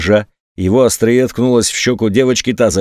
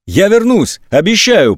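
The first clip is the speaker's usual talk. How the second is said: earnest vow; 8 semitones higher than usual. A narrator's reading. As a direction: swear it to her. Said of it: "поклялся брат".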